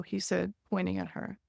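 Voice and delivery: measured, even reading of her own book; memoir reading. Acted. Author reading her caregiving memoir aloud, calm narration. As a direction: read the passage steadily to the audience.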